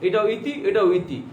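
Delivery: ইতি said slowly and evenly both times, showing the same sound; slow demonstration. Shown as a demonstration. Teacher to students, slow careful demo of ইতি. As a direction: spell out ইতি slowly so pupils hear no difference. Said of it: "আপনি উচ্চারণ করছেন".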